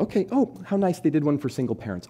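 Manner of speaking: high, impatient mock politeness; a hint of an irritated mom; mildly annoyed mom. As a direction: brush it off like a busy mother. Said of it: "she's a little annoyed".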